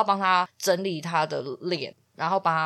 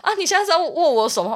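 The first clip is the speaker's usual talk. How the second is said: smug guy voice; 10 semitones higher, 7 dB louder, faster than usual. Retold or imitated. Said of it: "他还跟我说".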